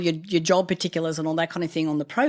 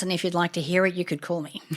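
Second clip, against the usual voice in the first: laughing; 3 dB quieter than usual. Retold or imitated. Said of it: "And I said".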